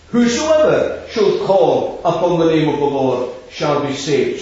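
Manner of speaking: weight on "whosoever", easing down towards the end; stress on whosoever. Shown as a demonstration. Preacher quoting Paul to the congregation, stress on "whosoever". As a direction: lean on "whosoever" at the start. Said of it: "the emphasis is on the word".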